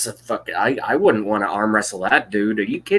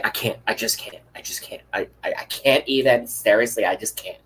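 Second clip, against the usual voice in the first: mock a dramatic cheerleader who just can't; cheerleader impression. Mocking cheerleaders who can't even, lightly voiced. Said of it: "You know those cheerleaders who say".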